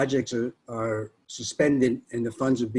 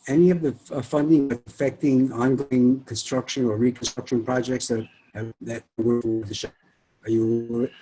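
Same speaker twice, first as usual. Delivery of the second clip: choppy connection cutting out; breaking up. Real, not acted. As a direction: voice dropping in and out. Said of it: "you're breaking up there".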